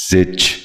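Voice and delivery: زچ with a short i or e, "zich"; correct زچ. Shown as a demonstration. Teacher modelling for viewers, زچ said as "zich". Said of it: "آپ بھی غور سے سنیے".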